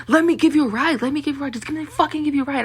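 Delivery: mocking an insistent creep offering a ride; pushy insistent driver. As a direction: badger her into the car. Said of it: "They'll be like".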